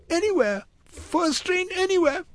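put-on very high, frightened child's voice; squeaky-high, urgent little-boy refusal; panicked boy in broken English. A narrator's reading. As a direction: protest in short, desperate bursts. Frightened boy set on fleeing.

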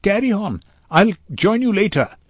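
lifted, carrying voice; calling out. A narrator's reading. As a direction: call it out across traffic. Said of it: "she called as impatient drivers".

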